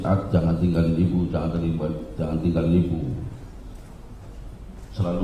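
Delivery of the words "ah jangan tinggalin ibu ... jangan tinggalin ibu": softer, retold tearful begging; understated sobbing plea; crying plea. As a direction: imitate a weeping mother, quietly. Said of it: "nangis-nangis".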